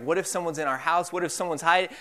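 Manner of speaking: retold panic. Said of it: "And I'm, like, panicking".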